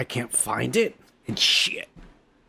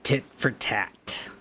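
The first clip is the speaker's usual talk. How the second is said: slow, lightly voiced presidential echo; mock Trump; 4 semitones lower, 3 dB quieter, slower than usual. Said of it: "this president".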